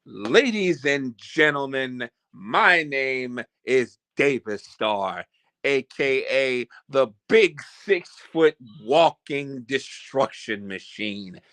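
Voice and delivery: slow, booming wrestling announcer; drawn-out ring promo voice. Pretend. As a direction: hype yourself up like a pro wrestler entering. Wrestling promo style intro.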